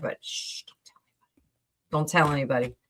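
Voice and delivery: hushed conspiratorial whisper; shh, whispering a mock secret to viewers; playful whisper. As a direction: let them in on a secret, breathy and hushed. Playful secret about the shore.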